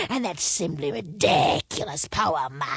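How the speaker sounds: gasping words between laughs; helpless laughter. A narrator's reading. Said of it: "helpless with laughter".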